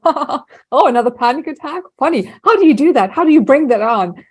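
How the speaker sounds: dry sarcastic mockery of the panic; sarcastic teasing. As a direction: tease it, don't pity it. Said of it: "rational, sarcastic, humorous".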